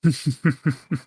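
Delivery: short rhythmic chuckle; amused fatherly laugh. Acted. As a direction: chuckle knowingly at the doubt. Father scoffs at daughter's doubt.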